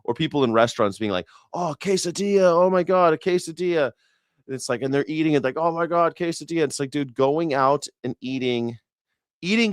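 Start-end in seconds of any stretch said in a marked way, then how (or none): 1.5-3.9 high-pitched mocking imitation of thrilled diners; hammed-up foodie amazement, pitched way up; mock gushing. Mimicking gushing restaurant diners. 5.6-6.6 high-pitched imitation of an amazed diner; hammed-up foodie delight; mock gushing. Mimicking diners gushing while eating.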